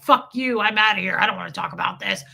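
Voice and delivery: mock blow-up, loud start then rushed; imitated angry outburst. Imitating exes who refuse to talk, mock angry and rushed. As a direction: imitate someone storming off, speeding up.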